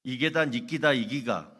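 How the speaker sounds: brusque Gyeongsang dialect retort; 경상도 사투리로 퉁명스럽게; Gyeongsang accent. Retold or imitated. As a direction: snap back in thick Gyeongsang dialect. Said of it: "경상도 청년이 뭐라고 얘기인지".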